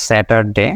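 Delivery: স্যাটারডে said with a clear r; the way many say স্যাটারডে, r kept in; wrong Saturday. Shown as a demonstration. Teacher shows the wrong স্যাটারডে with r. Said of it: "দুইটা একটা আসলে right না".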